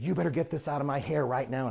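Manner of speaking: mildly mock-furious demand; really mad. Client orders painter to clean her hair, imitated anger. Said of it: "she got really mad".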